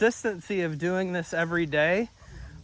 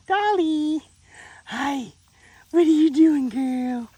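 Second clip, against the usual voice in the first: much higher, bright greeting; high puppy greeting; 11 semitones higher, 6 dB louder, slower than usual. Real, not acted. Trainer greets the puppy Dolly, high and excited.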